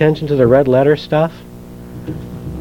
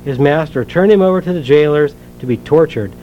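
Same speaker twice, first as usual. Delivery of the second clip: measured, earnest Bible reading aloud; scripture reading. Acted. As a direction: read the parable to the congregation, steady and clear. Reads the parable from Matthew.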